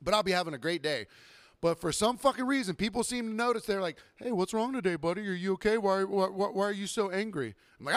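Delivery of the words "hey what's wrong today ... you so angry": higher-pitched imitation of a worried patron; pestering, stammered concern, pitched up; mock concerned customer. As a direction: mimic someone nosily checking on a buddy. Mimics customers asking why he's angry.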